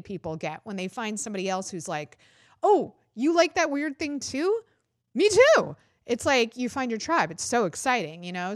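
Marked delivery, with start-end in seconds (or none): 2.6-5.8 rising into a thrilled squeal of recognition; excited fan. Retold or imitated. A fan thrilled to meet another fan, excited. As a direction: gush like you just found your people. Listeners finding shared niche interest.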